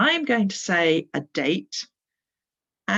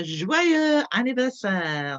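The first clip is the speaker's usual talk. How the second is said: slow model; 5 semitones higher, 4 dB louder, slower than usual. Shown as a demonstration. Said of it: "That's the French for happy birthday".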